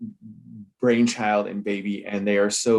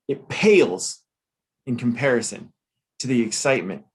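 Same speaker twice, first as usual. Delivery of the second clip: put-on Southern grifter accent. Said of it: "I did that accent".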